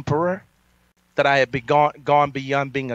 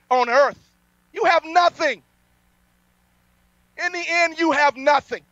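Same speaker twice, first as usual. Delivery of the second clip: preaching at full force; 11 semitones higher than usual. Acted. Preacher defying NBC and the syndicates, fiery preaching. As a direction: thunder it at the enemies from the pulpit.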